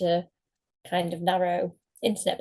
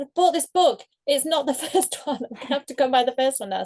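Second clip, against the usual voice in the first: higher-pitched mock protest; retold complaint; 6 semitones higher, 3 dB louder than usual. Author voicing readers who bought the sequel first, mock complaining. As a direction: act out a put-out book buyer. Retelling buyers' surprised complaints.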